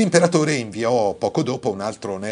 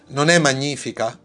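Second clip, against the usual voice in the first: raised, eager exclamation; exclaiming; 6 semitones higher, 6 dB louder than usual. A narrator's reading. Officials urging the emperor to admire, eager exclamation. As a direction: sell the wonder of the empty loom, pitched up. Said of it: "esclamarono i due bravi funzionari".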